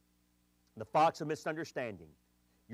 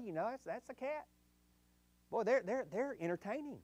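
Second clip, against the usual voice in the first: resigned; 4 semitones higher, 6 dB quieter than usual. Retold or imitated. Resigned quote about the cat.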